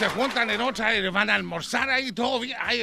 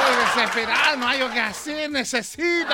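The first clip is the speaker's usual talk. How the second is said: laughing mock despair; 3 semitones higher than usual. Mock desperate plea with laughter.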